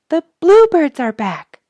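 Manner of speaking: high excited shout. A narrator's reading. Mary calling to Bud across the yard, high shout. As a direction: call it out high and loud. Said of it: "shouted Mary Smith to Bud".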